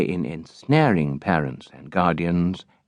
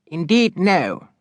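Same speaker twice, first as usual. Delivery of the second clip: put-on high, eager young woman's voice; eager daughter; 11 semitones higher, slower than usual. A narrator's reading. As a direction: ask papa with sharp curiosity. Charity answers father.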